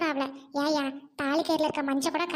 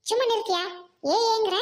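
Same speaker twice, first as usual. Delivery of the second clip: angry shout; 5 semitones higher than usual. Acted. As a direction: shout him down. Wife shouts down husband. (கோபமாக கத்துதல்)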